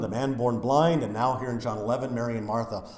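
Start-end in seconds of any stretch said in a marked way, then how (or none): none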